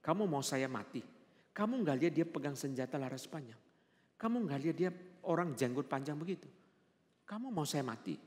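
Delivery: understated retold scolding by a husband; mild mock anger. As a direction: scold lightly, imitating the annoyed husband. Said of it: "Suami saya marah". (menirukan suami marah, tidak keras)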